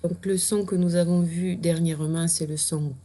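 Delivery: voix de maîtresse qui annonce le son; ménager le suspense avant le son. Shown as a demonstration. (annonce de maîtresse qui laisse attendre le son)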